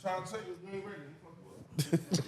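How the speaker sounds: trash-talking wrestling promo. Acted. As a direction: cut a promo on your opponent. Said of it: "Come on, this is promo".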